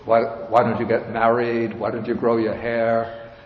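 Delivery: lightly voiced mother nagging her monk son, mock scolding. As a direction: nag like a disappointed mother, laughing through it. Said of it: "his mother would scold him".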